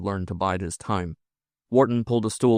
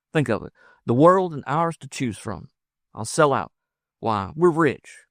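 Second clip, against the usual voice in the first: higher, eager frontiersman's voice; exuberant lover; 5 semitones higher than usual. Acted. Lover promising the woman the world, exuberant. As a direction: build the dream with excitement.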